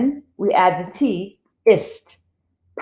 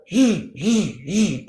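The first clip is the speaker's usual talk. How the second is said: sawing buzz; 3 dB quieter, much slower than usual. Shown as a demonstration. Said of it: "You know how it goes".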